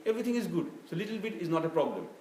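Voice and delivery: mild mock devil's persuasion; tempting Shaitan. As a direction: coax sweetly, as if whispering temptation. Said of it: "Shaitan will say".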